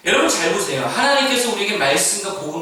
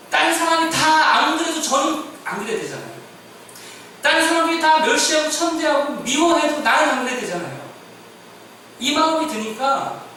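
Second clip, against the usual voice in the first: higher and louder, pleading with the congregation; impassioned preaching; 10 semitones higher, 4 dB louder than usual. Acted. Pastor confessing his own failing, impassioned preaching. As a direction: lift it up and press the point. Preacher builds to full force.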